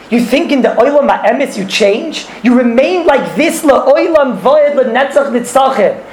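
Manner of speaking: slow, insistent declaration; emphatic rebuke. Retold or imitated. Dybbuk answering the question of the Olam HaEmes, emphatic rebuke. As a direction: draw the words out with insistence.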